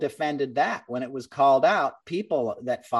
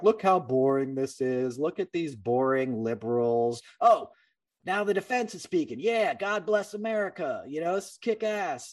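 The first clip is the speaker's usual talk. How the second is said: lightly voiced sarcastic boredom, a bit higher; mocking bored voice; 3 semitones higher than usual. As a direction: drone it out like a smug bored congressman. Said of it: "They're trying to be like".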